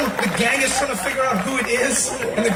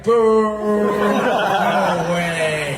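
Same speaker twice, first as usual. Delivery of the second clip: loud, long drawn-out crowd boo; heckler's jeer, stretched out; mock booing; 7 dB louder, much slower than usual. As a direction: boo like a whole unimpressed crowd. Imitating a crowd rejecting a candidate.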